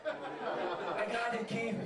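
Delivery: very slow, drawn-out got; mock slow penny-drop; slow delayed realization. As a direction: spell out the late epiphany. Delayed getting of joke by email.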